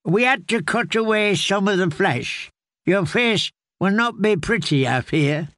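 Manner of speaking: put-on an old caretaker explaining gently; lightly voiced old man telling the tale; old man's voice. Grey man breaks bad news.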